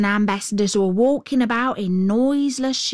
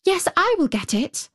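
Gerda's voice; 9 semitones higher than usual. A narrator's reading. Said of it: "said Gerda".

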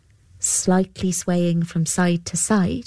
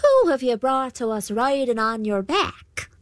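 put-on old woman voice; 5 semitones higher than usual. Banshee speaks.

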